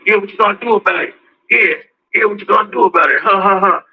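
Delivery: quick mock taunt with a fake laugh; goading. Shoe-stepper needling the person they stepped on, mock goading. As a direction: imitate a provoker who won't let up. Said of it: "they keep going and keep going".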